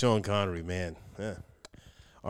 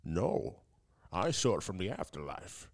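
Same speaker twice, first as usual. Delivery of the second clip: Sean Connery voice. Acted. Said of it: "it's Sean Connery from the grave".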